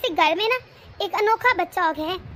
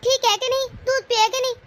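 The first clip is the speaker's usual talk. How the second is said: higher, fussy granny-on-the-phone voice, lightly mocked; a light mocking take on an anxious grandma; mimicking mother-in-law; 4 semitones higher than usual. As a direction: tease her doting worry in a higher voice. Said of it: "phone कर चुकी है".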